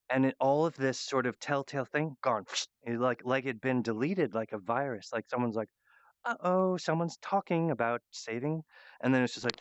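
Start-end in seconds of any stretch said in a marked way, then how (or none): 6.2-8.6 mock alarmed uh-oh. Imitates censor noticing alarm.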